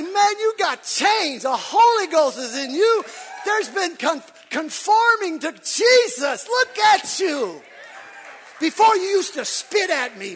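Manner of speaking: loud, slow, shouted amazement; booming mock welcome to a changed friend; shouted greeting.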